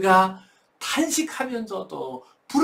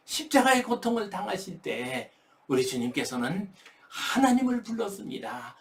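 normal talking voice

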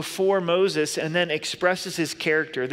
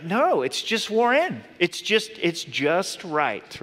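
defensive; slower than usual. Retold or imitated. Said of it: "And I'm like".

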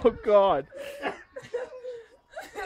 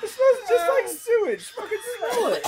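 disgusted by smell; 9 semitones higher than usual. Real, not acted. First whiff of the fish.

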